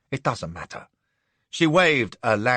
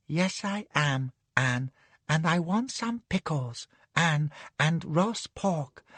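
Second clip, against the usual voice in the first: put-on little girl sing-song; 3 semitones higher, 4 dB quieter than usual. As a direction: whine it like a sleepy little girl. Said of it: "little girl sing-song".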